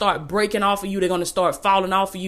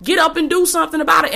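raised, higher scolding push; fussing; 5 semitones higher than usual. Real, not acted. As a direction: get on them like a preacher scolding. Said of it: "I'm not fussing at anybody".

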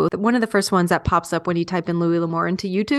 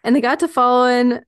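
lightly put-on Western storyteller accent; L'Amour's accent; 3 semitones higher than usual. Picking the memoir back up, in a light accent. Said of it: "I'm letting him possess me".

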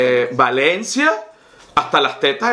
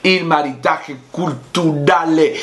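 slow hammed-up fake Italian; jokey fake Italian accent; mock Italian; slower than usual. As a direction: savour it like a pompous Italian. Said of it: "me gusta cuando usted habla italiano".

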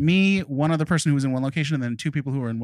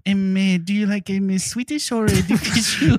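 mock French accent; 5 semitones higher than usual. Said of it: "You have a great accent".

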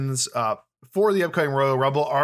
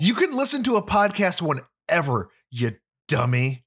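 mock scolding; 3 semitones higher than usual. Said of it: "I didn't mean to call you a dummy".

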